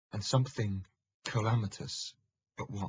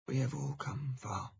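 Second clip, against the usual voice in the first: monk's reply; 7 semitones higher than usual. Acted. Monk replies through the hatch.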